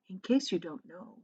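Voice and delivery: gentle, kind. A narrator's reading. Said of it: "a kind and gentle creature".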